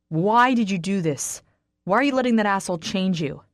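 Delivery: growled. Acted. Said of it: "He growls low under his breath, but keeps going".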